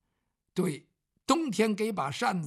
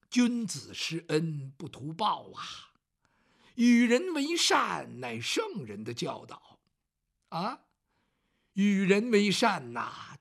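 lower, measured scholar quoting the sages, lightly voiced; lofty scholar; 3 semitones lower than usual. Bao Gong instructing Ma Dengcheng on kindness, a hint of lofty scholar.

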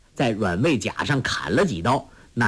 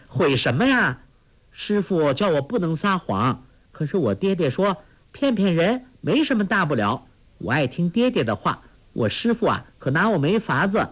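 put-on a light laugh, then higher playful girl's voice; 6 semitones higher than usual. A hint of a laugh as Huang Rong teases the farmer. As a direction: giggle and tease him. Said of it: "黄蓉笑道".

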